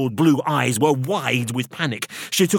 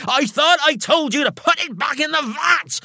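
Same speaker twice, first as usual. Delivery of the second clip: high, furious shout; exasperated, pitched-up yell; barked order; 4 dB louder than usual. A narrator's reading. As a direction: bark it at someone who disobeyed. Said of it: "barked Missus Ruddock".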